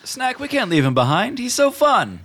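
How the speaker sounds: squeaky pleading creature voice; high genie voice. Acted.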